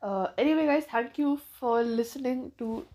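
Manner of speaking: blocked nose, nasal tone. Real, not acted. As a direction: speak with a stuffy nose. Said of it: "my nose is blocked suddenly".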